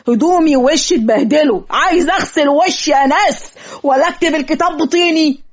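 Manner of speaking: exasperated protest. Acted. Muddy marriage officiant to a hostile father, exasperated protest. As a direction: plead your case in exasperation.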